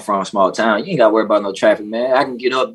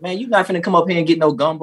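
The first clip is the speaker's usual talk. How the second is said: mock Louisiana boast; 9 semitones higher, faster than usual. Voicing Louisiana folks' boast.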